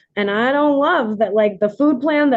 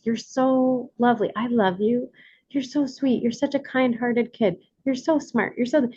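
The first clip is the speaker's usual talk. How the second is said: tender praise; 5 dB quieter than usual. Retold or imitated. Mother quoting praise to kids.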